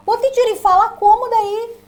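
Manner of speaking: high, loud student asking the teacher; mock student question. Student calling out to the teacher, high and loud. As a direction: play the eager student butting in. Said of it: "imagined student asks teacher".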